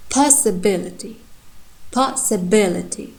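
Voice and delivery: possibility with the bi syllable stressed; demonstrating word stress. Shown as a demonstration. Teacher models stress for students, deliberate. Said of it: "I'm pronouncing primary stress".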